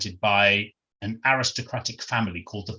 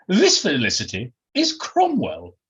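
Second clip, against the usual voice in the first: posh Englishwoman introducing her dog. Acted. Dog owner introducing Cromwell to Felicity, posh character voice. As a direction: present it grandly as a well-bred lady.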